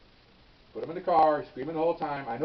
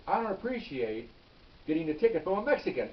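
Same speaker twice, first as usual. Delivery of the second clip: retold racial insult; 3 semitones higher than usual. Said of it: "He made it racial".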